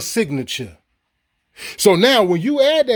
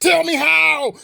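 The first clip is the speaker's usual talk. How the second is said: raised, sharp challenge to the viewers; angry demand; 6 semitones higher, slower than usual. Real, not acted. Challenging viewers to prove white privilege, angry raised demand. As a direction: throw the question at them hard.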